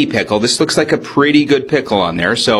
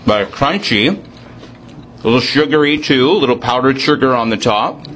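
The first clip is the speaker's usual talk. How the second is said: talking with a mouth full; chewing while talking; 3 semitones higher than usual. Real, not acted. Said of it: "Mom wouldn't be proud of me talking with my mo-, with my mouth full".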